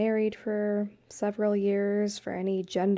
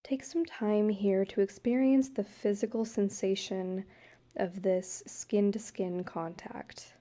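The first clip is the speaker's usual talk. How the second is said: calm guided-meditation voice with long pauses; unhurried, even-toned meditation leading. Acted. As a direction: gently guide a couple through a meditation, leaving space between phrases. Leads couples' guided meditation.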